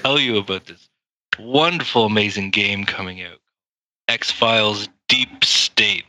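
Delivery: selling it like an ad; lightly hyped sales voice; showman pitch. Shown as a demonstration. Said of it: "Let me give you my best pitch then".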